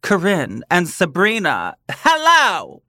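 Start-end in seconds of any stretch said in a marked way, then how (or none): 1.9-2.8 high squeaky voice; high squeaky hello. Pretend. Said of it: "tempted to do my".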